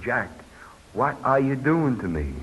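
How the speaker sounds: soft, subdued retold plea; lightly acted motherly plea; pleading mother. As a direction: quietly imitate a hurt mother pleading. Crying mother pleads with son.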